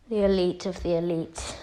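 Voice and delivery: low, understated self-introduction; Vegeta. Retold or imitated. Vegeta introduces himself to Frieza, low and understated. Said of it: "As Vegeta says".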